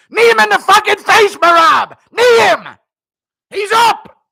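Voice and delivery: screamed high-pitched corner commands; Matt Serra impression. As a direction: scream urgent orders at your fighter. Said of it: "screaming in Matt Serra's voice".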